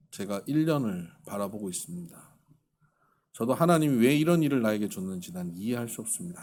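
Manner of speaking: retold low, subdued confession; understated hopeless resolve; resolute despair. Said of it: "너무 단호한 거예요".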